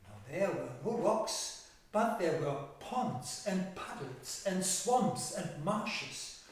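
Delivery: measured fairy-tale narration with stretched key words; storytelling to children. Acted. Telling children of thirteen brothers and an old woman, storytelling. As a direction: tell it to young listeners, leaning on the pictures.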